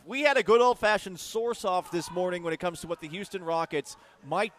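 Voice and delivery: upbeat station ad read; radio promo read. Acted. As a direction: sell it like a radio plug.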